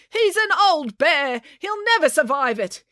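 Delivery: high, pleading protest; distressed cry. A narrator's reading. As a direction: plead high for the bear's life. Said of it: "cried the cat lady".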